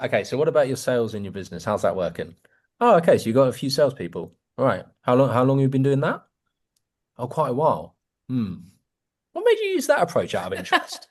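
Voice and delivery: curious, inquisitive questions with a changing tune; varied tone. Shown as a demonstration. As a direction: lift the last question way up in exaggerated curiosity. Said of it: "I'm exaggerating to make a point".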